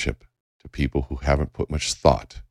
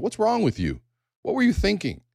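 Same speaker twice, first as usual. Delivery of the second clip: much higher, pointed accusing questions; accusing attack. Retold or imitated. Someone attacking the leader with a hostile question, high and accusing. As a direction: fire it at him like an attack. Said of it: "they attack me with a question".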